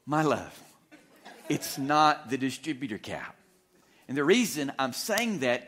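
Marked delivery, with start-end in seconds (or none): 0.1-3.4 overly gentle to the wife, tongue in cheek; gracious reply. Retold or imitated. Husband gently answers wife's repeated question, mock-gracious. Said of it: "I just graciously said".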